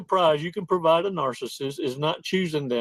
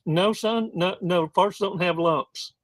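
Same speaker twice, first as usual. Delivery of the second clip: higher-pitched mom voice, trying to hold it together; put-on composed mother, pitched up; mother composing herself; 4 semitones higher, slower than usual. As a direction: answer as a mom regaining composure. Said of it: "she's trying to compose herself".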